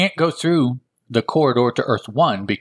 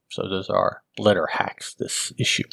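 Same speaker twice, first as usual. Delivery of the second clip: whisper; 3 semitones lower, 5 dB quieter than usual. Real, not acted. Aside after listing letter writers.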